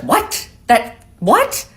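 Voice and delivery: high, disbelieving mock mom; shocked mom. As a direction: squeak out the double take. Mom voiced hearing the price.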